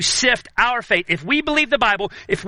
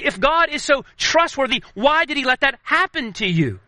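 tempter's insinuation; 4 semitones higher than usual. Retold or imitated. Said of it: "You hear him say".

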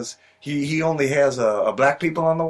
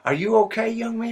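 put-on higher, fussy old-timer asking; old man voice; 9 semitones higher than usual. Delivery man fussing over Levi's head wound, mock old man. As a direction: peer at him like a worried old man.

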